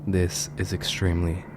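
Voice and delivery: measured, solemn true-crime storytelling; grave storyteller with weighty pauses; ominous horror narration. A narrator's reading. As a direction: narrate a dark case, letting phrase endings sink.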